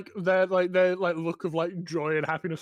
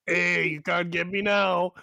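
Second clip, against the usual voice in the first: taunting little creature; 2 semitones higher, 6 dB louder, slower than usual. Acted. GM voicing taunting book creatures.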